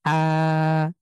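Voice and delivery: আ pressed from the middle of the throat; throaty ain. Shown as a demonstration. Teacher showing students the throat sound আ. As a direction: squeeze আ from the throat. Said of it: "কণ্ঠের মাঝখান থেকে চাপ দিয়ে".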